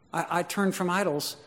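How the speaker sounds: mildly wondering convert, no boast; humble, surprised testimony. Acted. Preacher voices a believer grabbed by the message, humbly wondering. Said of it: "I don't know what happened in my life".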